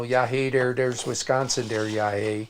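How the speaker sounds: lightly imitated Upper Midwest Wisconsin accent; mock Wisconsin locals' accent. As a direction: put on a folksy Wisconsin accent. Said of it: "we have our accents".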